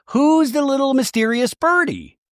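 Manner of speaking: high, pointed mock demand; mock interrogation. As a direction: press them in an exaggerated high voice. Acted interrogation of evasive castmate.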